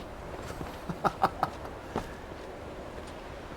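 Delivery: soft staccato chuckle. Acted. Player muses on invisible college defenses, soft chuckle. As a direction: chuckle quietly at your own idea. Jokes about being utterly invisible.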